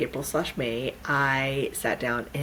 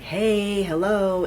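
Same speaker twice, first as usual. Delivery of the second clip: higher, louder attention-getting hail; mock loud call; 6 semitones higher, 5 dB louder, much slower than usual. Host mimics a loud inner pull, calling out. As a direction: call out to get noticed. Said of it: "It hasn't been loud".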